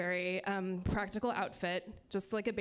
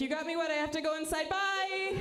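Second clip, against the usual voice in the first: fast, higher, panicked exit; 7 semitones higher than usual. Retold or imitated. Flustered escape from the neighbor, fast and panicked. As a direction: blurt it and flee. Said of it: "And so I panicked".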